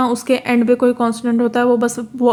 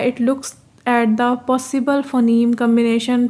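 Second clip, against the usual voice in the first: slow, careful reading of the English text; reading the textbook aloud; much slower than usual. Shown as a demonstration. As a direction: read each word out slowly for the class. Reads the English source line. (अंग्रेज़ी पाठ को धीरे-धीरे पढ़कर सुनाना)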